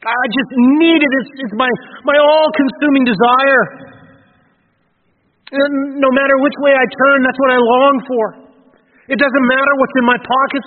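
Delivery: impassioned longing. Pretend. Preacher voicing David's thirst for God, impassioned plea. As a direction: speak as the thirsting psalmist, begging.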